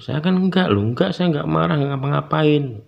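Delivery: high-pitched, bewildered retold protest; bingung. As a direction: protest innocence, voice jumping up. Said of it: "Lalu saya bingung". (membantah dengan bingung, nada tinggi)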